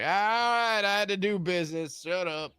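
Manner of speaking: high, loud All right, Shut up; loud playful snap. Acted. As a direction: shout back at rowdy friends. Innkeeper snaps at friends.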